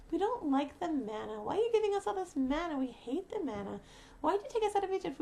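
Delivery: imitating a people's aggrieved grumbling; lightly hammed-up grievance; mock complaining. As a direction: protest in a mock complaint, pitch jumping on the accusations. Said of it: "we're complaining".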